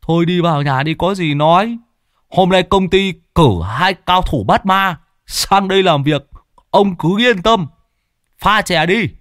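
high, eager voice of the house owner; host welcoming guests. Acted. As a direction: chirp it up like a fussy host. Chủ nhà mời thầy vào nhà. (giọng chủ nhà cao, niềm nở)

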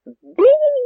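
very high, loud battle yell; huge soldier shouting. A narrator's reading. Giant soldier rushing the Cossack, yelling. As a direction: roar the charge. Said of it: "закричав жовнір велетенського зросту".

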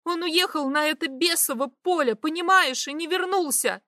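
frantic. A narrator's reading. Vi frantic about husband.

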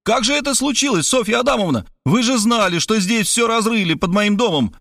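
high, reproachful exclamation; indignant question. Acted. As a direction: scold her for not knowing. Robert scolds her from balcony.

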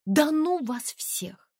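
high, slow, fed-up cry; exasperated outburst. Acted. Тонечка, cornered by the disbelievers, cries out in exasperation. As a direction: throw it at them all, fed up.

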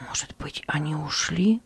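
soft, timid whisper. Acted. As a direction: barely dare to say it. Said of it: "осмелился прошептать Кристиан".

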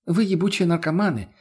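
put-on smug boy Tsar. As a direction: gloat over them like a spoiled kid king. Tsar scolding. (самодовольный царь, слегка выше)

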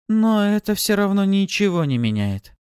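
high, loud, heated retort; angry insistence. A narrator's reading. Kastala growing angrier at Pafi, insisting. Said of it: "Она разозлилась ещё сильнее".

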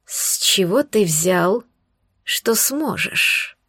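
slow, suspicious serpent voice; squinting snake. Acted. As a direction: drag it out, doubting him. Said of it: "Прищурилась змея".

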